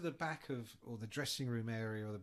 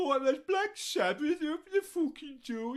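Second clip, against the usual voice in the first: mock angry shout; 13 semitones higher, 9 dB louder than usual. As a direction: yell at the intercom to open up. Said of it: "trying to talk to the intercom".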